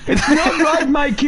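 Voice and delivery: high, loud German accent impression that slips toward Indian. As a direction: Toto Wolff style German accent. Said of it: "I made a German guy sound a little bit Indian".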